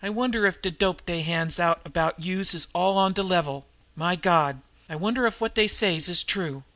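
lightly voiced street slang, half to herself; musing tough woman. Nan wonders aloud, street voice.

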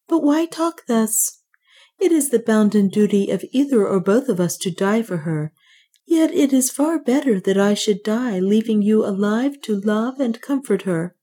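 a hint of a serene young priest; clear priest's acceptance. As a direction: accept calmly like a resolved priest.

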